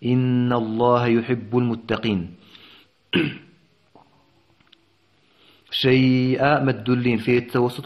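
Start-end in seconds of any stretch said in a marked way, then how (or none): 0.0-2.3 slow chanted tajweed recitation; Quran recitation. Shown as a demonstration. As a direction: recite the verse in measured, melodic chant. Teacher recites next verse.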